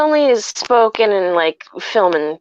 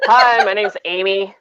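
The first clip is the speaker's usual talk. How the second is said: American accent, plainly said AMY; harsh American pronunciation. Shown as a demonstration. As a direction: introduce yourself in a matter-of-fact American accent. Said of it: "It's, like, so harsh".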